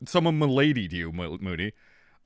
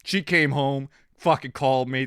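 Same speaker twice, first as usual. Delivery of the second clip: ordinary delivery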